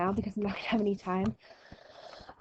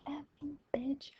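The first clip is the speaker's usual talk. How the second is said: snarky comeback; 6 semitones higher, 11 dB quieter than usual. Retold or imitated. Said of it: "I'd be like".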